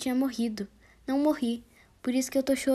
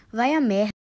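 angry retort; 7 dB louder than usual. Acted. Rude reply to loving message.

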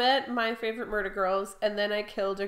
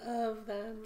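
coughy, raspy throat; smoker's rasp; 7 dB quieter than usual. Real, not acted. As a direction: rasp through a tickly throat. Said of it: "now that you've got your smoker's cough out of the way".

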